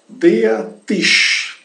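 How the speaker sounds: "deatish" said slowly, ending in a long sh; German pronunciation demo. Shown as a demonstration. Teacher showing students the word for table, German pronunciation demo. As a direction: model "deatish" with a hushing sh at the end. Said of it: "esse detalhe da pronúncia".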